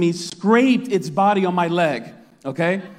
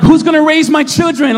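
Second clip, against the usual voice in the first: higher, louder desperate cry; mock despair; 9 semitones higher, 6 dB louder than usual. Father fearing a shark cries out for his children, mock despair. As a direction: wail it like the end is near. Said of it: "I'm freaking".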